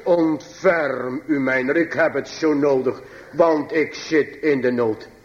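very slow, drawn-out pulpit delivery; solemn preaching. Acted. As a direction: draw each word out solemnly. Preekt gedragen. (plechtig en gedragen preken, traag)

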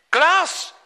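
loud, high desperate shout; calling out. A narrator's reading. Skipper searches for Klaas after the wave, desperate shout. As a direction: call the name into the storm. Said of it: "En hij roept het".

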